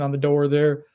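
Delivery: slight accidental Southern accent. Real, not acted. Host describing a recruiting battle, slight Southern accent. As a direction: let a touch of Southern slip in. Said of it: "I got Southern accent there".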